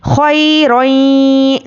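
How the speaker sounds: रोई drawn out slowly, vowel lifting; zabar vowel rising. Shown as a demonstration. Teacher demonstrating zabar to students: रोई rising slowly. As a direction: slowly lift the voice on खोई रोई. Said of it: "ये आवाज़ ऊपर को जाती है".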